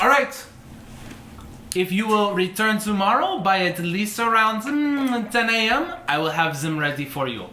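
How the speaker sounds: obliging shopkeeper, thinking aloud; French-style tailor. Acted. Tailor telling a customer when to return, obliging character voice. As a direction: promise the order in the tailor's character. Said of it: "he's like".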